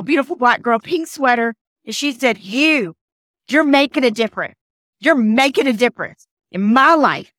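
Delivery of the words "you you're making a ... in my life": deliberate, heartfelt emphasis on "you're making a difference"; retold praise, each phrase set apart and pressed home; emphatic. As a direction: quote her with pauses, leaning on "you're". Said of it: "just as emphatic as I'm saying it".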